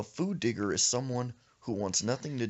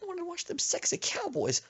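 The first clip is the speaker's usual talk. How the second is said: cussing under her breath. Retold or imitated. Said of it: "cussing under her breath".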